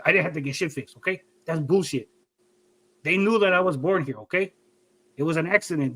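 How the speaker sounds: imitated defensive dad with a Mexican accent; dad's Mexican accent. Son mimics dad disputing the papers, Mexican accent. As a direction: argue back in dad's mock Mexican accent. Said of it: "I give you an accent".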